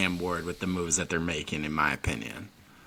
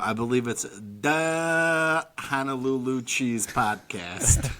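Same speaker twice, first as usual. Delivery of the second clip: put-on Chicago accent; slower than usual. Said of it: "So that's how they say it in Chicago".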